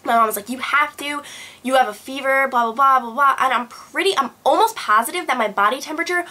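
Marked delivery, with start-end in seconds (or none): 0.5-3.4 lightly voiced insistent mother; a slightly raised, imitated parental insistence; insistent mom.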